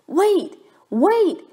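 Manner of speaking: high calling wait wait; yelling. A narrator's reading. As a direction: call after the leaving bus. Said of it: "he yelled".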